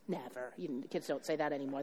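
ordinary delivery

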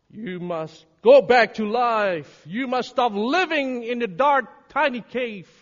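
loud, urgent preacher's command; forceful preaching. Real, not acted. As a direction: drive the command home to the congregation.

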